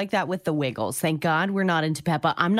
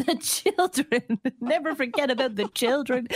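mock-dramatic plea; 4 semitones higher than usual.

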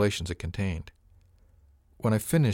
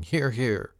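rousing cheer; 5 semitones higher than usual. A narrator's reading. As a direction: cheer it out like a crowd raising glasses. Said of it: "gave a rousing".

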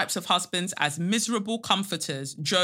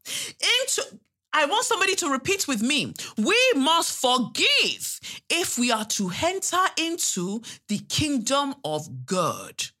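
mock preacher; 6 semitones higher than usual. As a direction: lead the flock in repeating, hammed-up high preacher. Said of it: "get on the pulpit and they'll be like".

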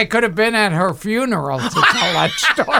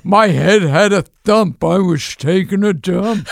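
George Burns voice. Retold or imitated. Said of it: "he would make up songs".

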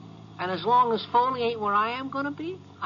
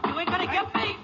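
defiant yell; 10 semitones higher than usual. Acted. Cornered robber resisting arrest.

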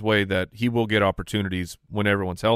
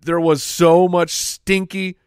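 excited; 4 semitones higher, slower than usual. Real, not acted. Gleeful fantasy garbage joke.

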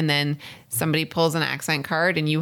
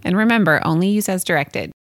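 louder closing sponsor disclaimer; ad read; 6 dB louder than usual. Acted. Host closing the allergy sponsor spot, ad read. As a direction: land the ad's last line firmly.

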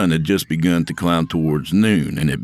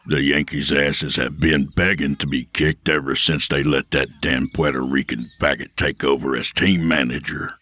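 lower, hard-edged bully lecturing; Will's tough voice; 3 semitones lower than usual. Acted. Will voiced by narrator.

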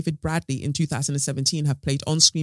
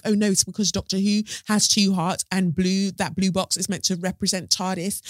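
mock explainers; 5 semitones higher than usual. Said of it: "people were like".

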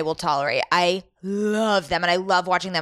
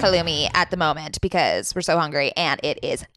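chewing while talking; mouth full; 3 semitones lower than usual. Real, not acted. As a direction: talk through a mouthful. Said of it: "if you hear me chewing".

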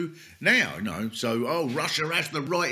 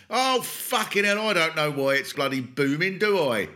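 imitating the diplomat; 4 semitones higher than usual. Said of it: "That's not what he would sound like".

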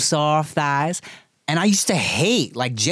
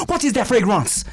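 put-on "What is that fragrance" higher and laughing in a hammy French accent; mock French accent; 5 semitones higher than usual. Co-host playing the African man, hammy French accent. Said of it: "The African dude's French?".

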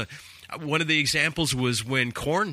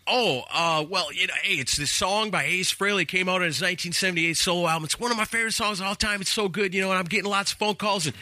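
higher, rushed enthusiastic rambling; eager explaining; 6 semitones higher, faster than usual. Retold or imitated. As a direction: imitate nervously selling the song to the boss. Acting eager explanation to the boss.

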